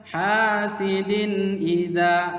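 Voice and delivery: "Hasidin idza" chanted slowly, n clear; correct recitation. Shown as a demonstration. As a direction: recite "Hasidin idza" in drawn-out vowels with a clean n. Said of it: "Gimana cara bacanya?". ("Hasidin idza" dilantunkan pelan dan jelas)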